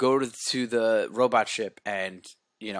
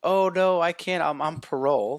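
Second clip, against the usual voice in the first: panicked refusal; 6 semitones higher, 4 dB louder than usual. Retold or imitated. Cadet refusing gun, comic panic.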